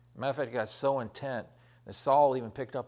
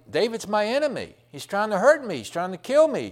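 raised, higher, louder accusing voice; Saul's accusing rant; 8 semitones higher, 6 dB louder than usual. Retold or imitated. Preacher voicing Saul accusing David to everybody, loud and high. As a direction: proclaim it like a jealous king. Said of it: "Saul was going around telling everybody".

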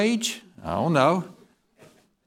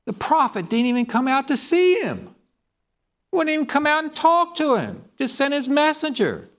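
much higher, rising indignation; heated preaching; 10 semitones higher than usual. Real, not acted. Preacher building up over how Naaman was snubbed, higher and heated. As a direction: drive home the insult. Preacher stressing the prophet's snub.

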